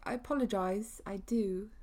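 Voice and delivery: a clumsy mock British accent on the apology; jokey fake British accent; bad British accent. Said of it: "That was a really bad British accent".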